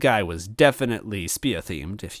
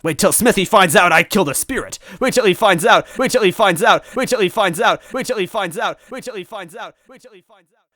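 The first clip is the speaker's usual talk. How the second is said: robot loop fading out; 14 semitones higher, 10 dB louder than usual. Acted. Glitching robot villain looping, fading to silence. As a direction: repeat like a broken machine winding down.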